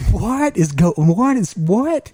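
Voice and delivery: retold stunned what; incredulous what. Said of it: "I'm like".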